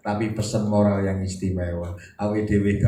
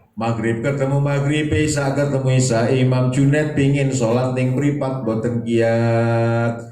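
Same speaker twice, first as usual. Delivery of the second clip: louder and higher, a dramatic sermon build that slows right down on boten kiat; raised preaching refrain; 4 semitones higher, 4 dB louder than usual. Acted. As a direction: preach it loud, then let it sag with sleepiness. (refrain khotbah keras lalu melambat)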